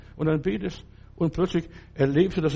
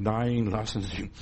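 calm reassurance; 5 semitones lower, 4 dB quieter than usual. Retold or imitated. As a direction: quietly wave off the worry. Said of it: "Hab ich gesagt".

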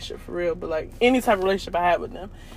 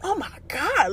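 mimicking boss; 7 semitones higher, 4 dB quieter than usual. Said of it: "Miss Shirley be like".

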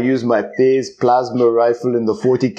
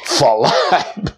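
jacked bird voice; 3 semitones higher than usual. Retold or imitated. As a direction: strain out each flap. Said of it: "It'd be like".

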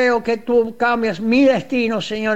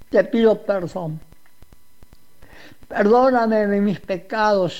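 humble repentant prayer, each Señor fading away; voicing the sinner's prayer for listeners, humble and pleading; model prayer of repentance. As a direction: pray it for the listener as if confessing yourself. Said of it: "Cuando tú abres el corazón y dices".

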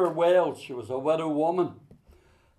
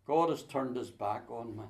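retold despair; 4 semitones lower, 7 dB quieter than usual. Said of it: "She says".

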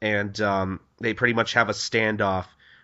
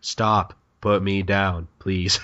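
low-key, half-hearted protest; anticlimactic; 4 semitones lower, much slower than usual. Retold or imitated. Hunter being carried away, anticlimactic plea. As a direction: protest weakly, with no urgency. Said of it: "that sounded so anticlimactic".

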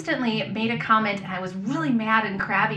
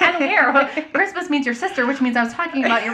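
exasperated rant; 7 semitones higher, 8 dB louder than usual. Retold or imitated. Retold exasperated reply to husband.

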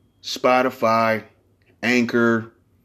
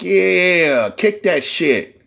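hyped coworker; 3 semitones higher, 3 dB louder, much slower than usual. Retold or imitated.

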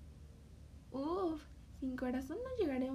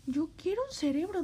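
louder, faster, pleading; louder insistent wish; 2 semitones higher, 7 dB louder, faster than usual. Acted. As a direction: push it harder the second time. Scarecrow repeating wish louder.

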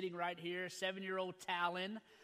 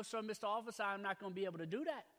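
lightly acted Louisiana accent, dropped r's; faster than usual. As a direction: joke character with a touch of Louisiana accent. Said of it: "I'll throw a little accent in for you".

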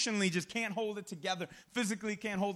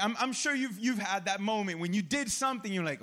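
usual speaking voice

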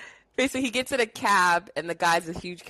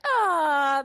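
Lucy wail; 7 semitones higher, 3 dB louder than usual. Retold or imitated. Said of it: "Lucy's always like".

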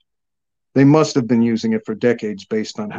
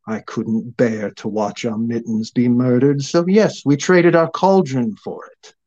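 distressed crone. Acted. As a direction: plead it, voice rising. Crone pleading her cat's loss.

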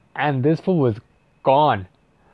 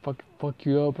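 mock threatening girl; 3 semitones higher, 5 dB quieter than usual. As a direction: lightly voice her taunting. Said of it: "And she was like".

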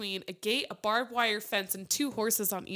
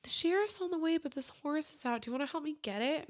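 imitating boyfriend; 6 semitones higher than usual. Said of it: "and he goes".

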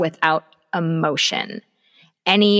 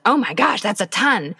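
mock shock. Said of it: "That's emotion".

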